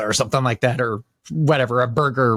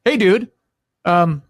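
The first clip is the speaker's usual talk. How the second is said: slow, higher-pitched telling-off; pointed demand; 6 semitones higher, slower than usual. Retold or imitated. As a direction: retell firmly reminding a friend what they owe. Retold demand to be paid back.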